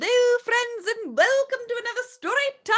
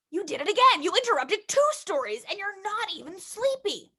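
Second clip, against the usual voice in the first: papa voice; 4 dB quieter than usual. Acted.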